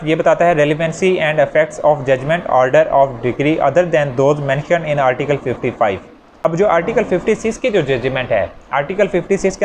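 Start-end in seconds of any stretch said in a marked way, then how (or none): 0.6-6.0 slow heading read. Shown as a demonstration. Reading out the article heading.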